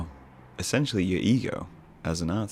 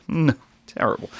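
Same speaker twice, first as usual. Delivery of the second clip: laughing; 10 semitones higher, 6 dB louder than usual. Real, not acted. Laughs at own word choice.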